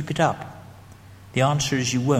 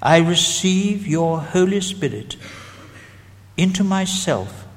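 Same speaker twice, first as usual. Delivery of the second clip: prayer read; 3 semitones higher, slower than usual. Shown as a demonstration. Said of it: "The prayer is this".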